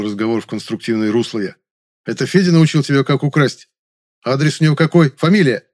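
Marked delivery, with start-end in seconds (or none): 2.0-5.7 loud threatening, higher. Acted. Young man threatens the maid with police, loud.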